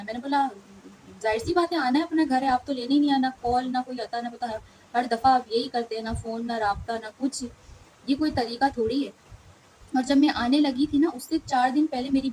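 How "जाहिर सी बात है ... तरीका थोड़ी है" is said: mildly indignant, slightly raised pitch; retold indignant retort. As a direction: push back as if arguing over the phone, with mild reproach. Retells her retort on the phone.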